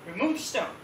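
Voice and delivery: questioning echo of a command; lightly acted disbelief; incredulous echo. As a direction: repeat the order back in mild disbelief. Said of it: "everyone was like".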